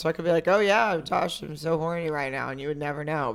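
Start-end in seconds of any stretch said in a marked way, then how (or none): 0.5-2.5 unconvincing come-on. Acted. Woman showing how girls could lie, unconvincing come-on. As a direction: say it like you don't mean it. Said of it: "If you said it like that".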